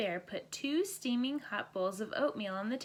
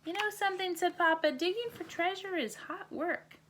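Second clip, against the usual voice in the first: hot tired Papa; 9 semitones higher than usual. Acted. Papa says hot work.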